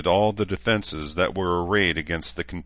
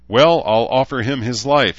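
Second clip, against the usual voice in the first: feral smile; 5 semitones higher, 8 dB louder than usual. A narrator's reading. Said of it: "with a feral smile".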